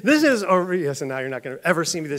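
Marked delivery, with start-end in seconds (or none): 0.0-0.4 high, loud, laughing false start; cracking up mid-quote. Real, not acted. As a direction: try to get the line out through giggles. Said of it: "so couldn't help it".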